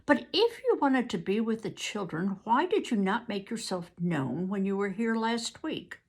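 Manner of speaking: milder tones. Acted. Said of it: "put in milder tones".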